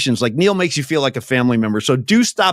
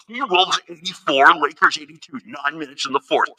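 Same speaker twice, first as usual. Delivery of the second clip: muffled behind a hand; hand over mouth. Acted. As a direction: speak through cupped hands. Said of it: "put your hands over your mouth".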